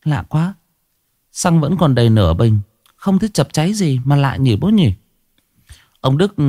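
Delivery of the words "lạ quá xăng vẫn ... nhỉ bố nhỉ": whimpering. Acted. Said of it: "Cô mếu máo".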